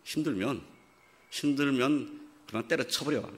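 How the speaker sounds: a lightly voiced dismissive dad; half-hearted gruff father voice; mock gruff father. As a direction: brush her off like an impatient father. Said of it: "이럴까요?".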